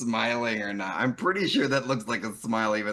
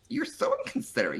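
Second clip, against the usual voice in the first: "inconsiderate" raised high and rushed in a mock scold; 12 semitones higher, faster than usual. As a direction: squeak the insult out fast, teasing. Repeating the insult in variations.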